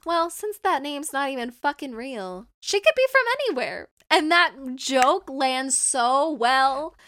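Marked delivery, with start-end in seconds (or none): 0.1-3.9 rising to a much higher, louder, fast finish; sarcastic quote, fast and high at the end; mocking line. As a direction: toss it off mockingly, pitch jumping high at the end. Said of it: "they're like".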